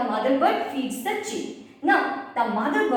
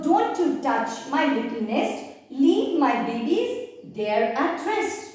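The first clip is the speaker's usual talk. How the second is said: mild stern warning from the mother bird; mother bird's warning. Shown as a demonstration. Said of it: "the warning is very severe".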